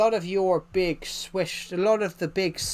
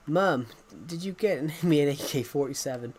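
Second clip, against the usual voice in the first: mock American accent. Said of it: "an American person will go".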